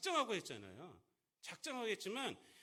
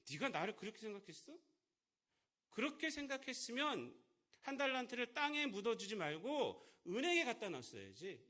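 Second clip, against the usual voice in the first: scolding master; 5 semitones higher, 4 dB louder than usual. Retold or imitated. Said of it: "그러니까 주인이".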